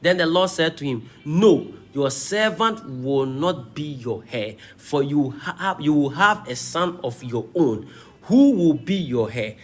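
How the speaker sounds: emphatic, rise-and-fall Bible reading; preacher declaiming a dialogue from scripture. Acted. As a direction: read the passage out to a congregation. Reads scripture aloud.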